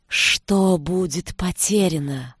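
slow hypnotic serpent hiss. Acted. The forest's snake voice.

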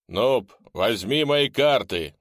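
clear and loud. Acted. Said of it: "прозвучал ясно и громко".

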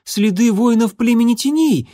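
high, hurried report of enemy tracks; young warrior's mew. Acted. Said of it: "мяукнул он".

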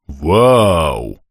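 amazed at the sight; amazed exclaim. Acted. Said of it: "воскликнул Бран".

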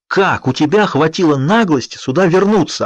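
put-on an angry father yelling at the boyfriend. A narrator's reading. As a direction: tear into him in a rage. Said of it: "орал на Эдварда Чарли".

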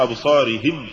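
imitated faulty أبصارهم; questioned reading. Shown as a demonstration. Interviewer asks whether this is right, faulty أبصارهم. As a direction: say أبصارهم quickly with a rising end. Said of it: "هل هذا صحيح؟".

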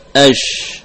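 SH in "Ash" held and flowing; flowing sound. Shown as a demonstration. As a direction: let the sound keep running on "Ash". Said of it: "mengalirkan suara". ("Ash" dengan suara yang mengalir)

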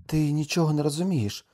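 high, firm contradiction; wife's high-voiced rebuttal; insistent retort. Wife contradicts her husband.

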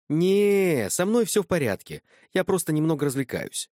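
high, loud tipsy woman's voice; a carefree drunk brushing him off. A narrator's reading. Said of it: "хриплый, невнятный и пьяный". (пьяная, беззаботная женщина)

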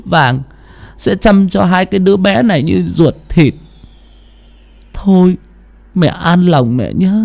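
prayer. Acted. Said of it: "khấn vái".

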